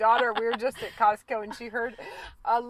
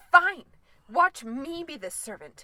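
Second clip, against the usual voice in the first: whiny voice; 4 semitones higher, 5 dB louder than usual. Retold or imitated. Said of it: "he was doing a whiny voice".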